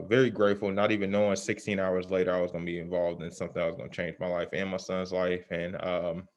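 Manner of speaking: muffled behind a face mask; talking through a mask. Real, not acted. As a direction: speak through a mask covering the mouth. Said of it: "can't hear me with this mask on".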